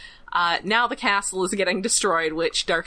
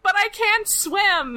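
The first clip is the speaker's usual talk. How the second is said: mock panic; 12 semitones higher, 3 dB louder, slower than usual. Darkstorm panicking in the moat.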